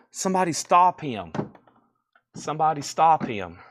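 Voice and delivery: hammed-up begging to stop; mock pleading. Begging Chad to end the feed, mock pleading. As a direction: plead in mock desperation, punching each stop.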